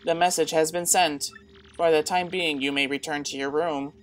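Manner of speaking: measured machine-like read; a hint of robot helper; Tech voice. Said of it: "I gotta stop doing that Tech voice".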